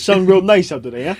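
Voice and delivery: lightly mocked Italian Jersey small talk; Italian Jersey accent. Chatting to a neighbour about weather, mock Italian Jersey accent. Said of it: "some wicked Italian Jersey accent".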